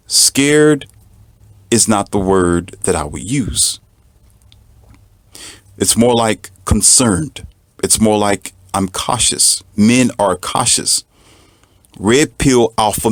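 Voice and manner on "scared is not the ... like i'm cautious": slow and deliberate, every word weighed; drawn out and measured; spoken slowly, cool and deliberate; real slow. Retold or imitated. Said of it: "I'll say real slow".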